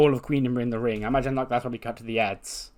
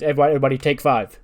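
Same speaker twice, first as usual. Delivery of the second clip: quick, loud call to a group; acted coach announcing a break; 6 dB louder, much faster than usual. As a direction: call it out briskly to everyone. Coach calls out to class.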